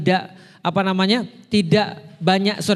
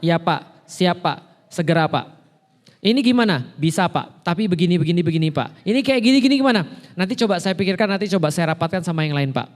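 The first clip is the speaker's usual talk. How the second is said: deferential employee. Retold or imitated. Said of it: "Perannya berarti sebagai seorang karyawan".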